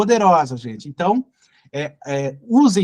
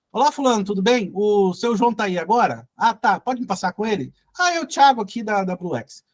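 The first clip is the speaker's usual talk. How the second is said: friendly call opener. Shown as a demonstration. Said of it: "Como se fosse amigo do cara".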